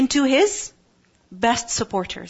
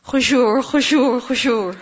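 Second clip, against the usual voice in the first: put-on sharp repeated hush at the kids; a mother hushing her kids while she prays, in a pressed hiss; urgent hushing; 3 dB louder, slower than usual. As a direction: hiss it at noisy children mid-prayer. Hushing noisy kids during prayer.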